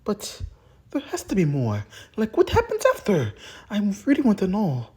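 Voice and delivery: high, loud and excited; eager begging. Acted. Listener pleading to hear what happens next, high and loud.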